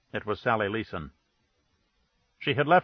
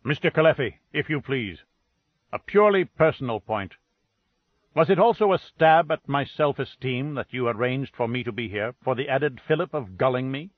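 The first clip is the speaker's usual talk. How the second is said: spoken sharply. Acted. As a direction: speak sharply after someone walking away. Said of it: "He spoke sharply to their backs".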